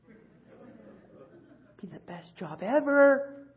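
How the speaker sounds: slow dreamy whisper. Pretend. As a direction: breathe it like a secret delight. Dreamy aside about lunch.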